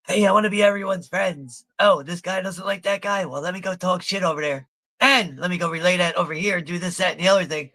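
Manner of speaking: mocking Reg. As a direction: sneer it like a fake friend.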